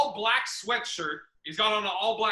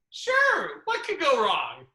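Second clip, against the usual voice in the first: sarcastic; 5 semitones higher, 4 dB louder, slower than usual. Retold or imitated. Sarcastic agreement to booker.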